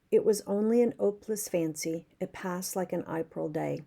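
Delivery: put-on lilting Irish accent, half spoken. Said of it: "That was my Irish accent".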